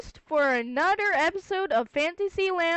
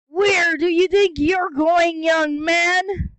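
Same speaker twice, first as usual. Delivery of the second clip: loud, stern call; angry summons; scolding shout; 3 semitones higher, 6 dB louder than usual. Acted. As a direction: yell after him to stop. Scolding figure catches runaway.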